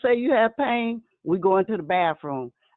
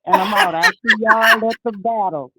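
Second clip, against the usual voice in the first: excited sign-off; 6 dB louder than usual. Real, not acted.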